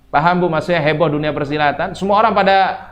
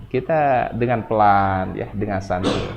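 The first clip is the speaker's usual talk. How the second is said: slow, easing lower at the end; slow and relaxed; 4 semitones lower, slower than usual. Shown as a demonstration. Preacher showing mothers a relaxed approach, slowly. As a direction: take it gently and unhurried.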